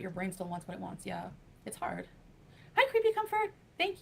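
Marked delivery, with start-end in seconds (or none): 2.8-4.0 excited greeting. Real, not acted. Greeting a chat viewer.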